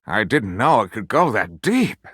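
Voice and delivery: slow, lightly voiced, a touch of a moan; drawn-out hint of a moan; mock moan. A narrator's reading. Xander moans about his discovery, mildly hammed-up. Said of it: "Xander moaned".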